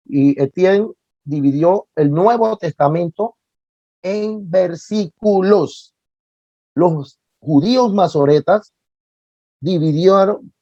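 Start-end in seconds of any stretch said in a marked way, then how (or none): 4.0-5.9 VERSÍCULOS drawn out syllable by syllable, higher; énfasis didáctico. Real, not acted. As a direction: stretch VERSÍCULOS slowly, each syllable apart. Teacher spells out key term slowly. (énfasis didáctico, VERSÍCULOS lento y silabeado)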